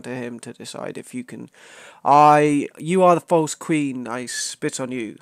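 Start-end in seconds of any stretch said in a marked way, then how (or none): 2.1-5.2 slow, hammed-up Ugandan meme accent; mock Ugandan accent. Denouncing a false queen, mock Ugandan accent. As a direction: slowly pronounce judgement in a joke Ugandan accent.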